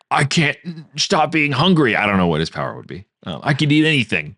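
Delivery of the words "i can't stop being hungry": whiny hungry demon. Pretend. Voicing the pig demon Glut.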